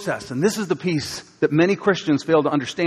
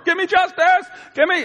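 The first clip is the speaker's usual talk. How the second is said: bang on the door and demand it; demanding shout; 13 semitones higher than usual. Retold or imitated. Widow hammering on the judge's door, shouting for justice.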